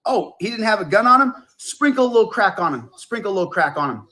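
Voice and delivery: hammed-up Chris Rock bit; Chris Rock impression. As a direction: deliver the punchline like the comedian. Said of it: "And then he would go".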